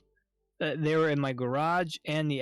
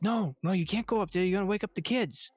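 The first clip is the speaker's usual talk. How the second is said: higher, hurried imitation of the wife; higher mock-wife whisper-urgent plea; wife pleading; 5 semitones higher, faster than usual. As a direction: raise the pitch and rush like a worried wife. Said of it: "my wife's like".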